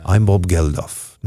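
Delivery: put-on slow, mild English accent try at Bob Geldof; a second go, now in an English accent. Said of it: "Get me in an English accent mode".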